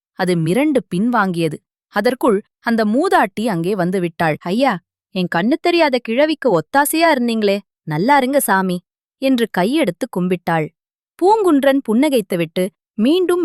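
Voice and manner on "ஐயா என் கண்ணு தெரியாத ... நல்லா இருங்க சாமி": lightly voiced blind old woman, thankful; a hint of an old woman's blessing; grateful old woman.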